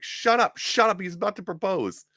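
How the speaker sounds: very high squeaky shush; hammed-up high-pitched hush; mock teammates shushing. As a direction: falsetto teammates hushing each other. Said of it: "they're like".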